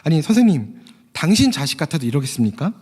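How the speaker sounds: retold angry challenge to a doctor; mildly acted outrage, pressing the question; indignant father. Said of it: "아버지가 화를 냅니다".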